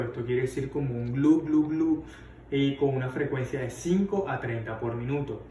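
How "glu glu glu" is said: spoken imitation of gurgling bowel. Shown as a demonstration. Teacher describing normal bowel sounds, imitating their gurgle. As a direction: imitate a gurgle with repeated "glu". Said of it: "también tienen características de gorgoteo".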